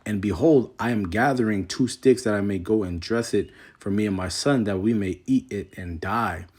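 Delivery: measured King James reading voice; scripture reading. Acted. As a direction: read the verse with solemn weight. Reads scripture aloud.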